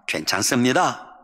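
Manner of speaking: low, formal standard Korean. Shown as a demonstration. Preacher gives the model phrase, in standard Korean. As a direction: say it in proper Seoul Korean. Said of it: "표준말".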